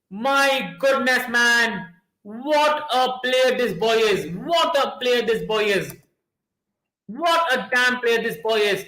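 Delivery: drawn-out admiring exclamation; awed praise. Real, not acted. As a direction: savour each word about the player. Admiring the scorer after goal.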